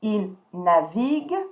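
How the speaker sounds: "Il navigue" slowly, ending on a hard G; stop at G. Shown as a demonstration. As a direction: model "navigue" with nothing after the G. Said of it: "stop at the G".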